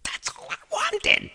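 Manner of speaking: whispered, worn-out sigh of words; weary whisper. Real, not acted. Tired customer after the long visit, whispered. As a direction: breathe it out defeated.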